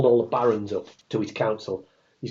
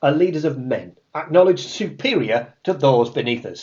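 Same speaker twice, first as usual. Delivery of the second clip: Joe Pasquale voice; 3 semitones higher, 7 dB louder than usual. Acted. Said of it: "in his Joe Pasquale voice".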